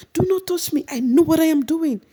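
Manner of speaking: very high shrill refusal; imitating a furious housemate; mock angry Mercy. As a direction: push them off in an imitated tantrum. Mercy retold again.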